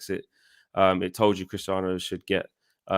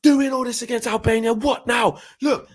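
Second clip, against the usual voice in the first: high, mocking taunt at the player; sarcastic rant. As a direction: jeer at him from the stand. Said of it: "I was going".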